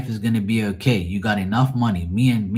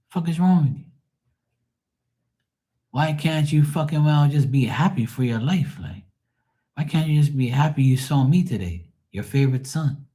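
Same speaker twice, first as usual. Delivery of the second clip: exasperated pleading; 6 semitones higher than usual. Retold or imitated. Acted exasperated rant at his mother.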